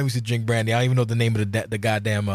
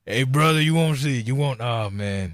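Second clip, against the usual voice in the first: wrestler promo voice; 3 semitones higher than usual. Retold or imitated.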